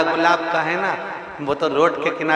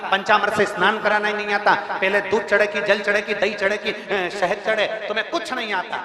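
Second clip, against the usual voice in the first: higher, rapid-fire reproach; mock scolding; 4 semitones higher, faster than usual. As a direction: rattle off the faults like a nagging critic. Voicing critics scolding a devotee.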